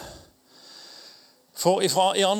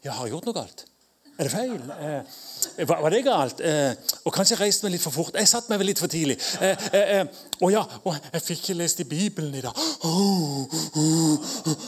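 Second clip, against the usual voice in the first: anxious Christian. Retold or imitated. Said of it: "kristne som går rundt og lurer".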